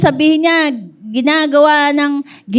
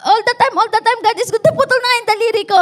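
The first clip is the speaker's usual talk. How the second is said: high-pitched indignant outburst from the king; angry king; 6 semitones higher, faster than usual. Retold or imitated. King scolds the servant over his lost finger, angry. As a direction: make the king sputter angrily, pitched high. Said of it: "Nagalit yung hari".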